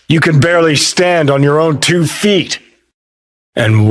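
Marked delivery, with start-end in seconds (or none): 0.1-2.6 incredulous scolding, pitched up; higher, agitated rebuke; exasperated. Acted. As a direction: scold them in disbelief. Berates listener for reckless plan.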